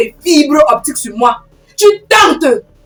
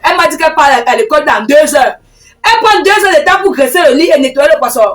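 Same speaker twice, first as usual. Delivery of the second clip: mildly raised, insistent self-defence; heated protest; 3 semitones higher than usual. Acted. Woman denying she kept the girl home, heatedly protesting. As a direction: argue back with some heat. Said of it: "tu arrêtes de me crier dessus".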